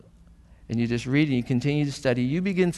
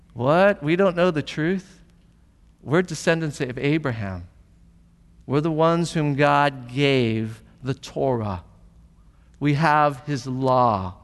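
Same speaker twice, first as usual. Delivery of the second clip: defensive protest. Retold or imitated. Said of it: "And they're like".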